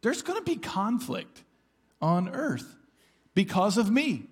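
a hint of Jesus warning his followers; paraphrasing Jesus. Pastor voicing Jesus' warning to believers, urgent. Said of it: "he says".

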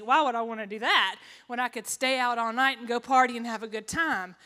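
mock-indignant sarcasm; sarcastic. Shown as a demonstration. Speaker mocking her younger self's love of partying, sarcastic. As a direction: scoff at the rules as if they were crazy. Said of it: "Please hear the sarcasm in my voice".

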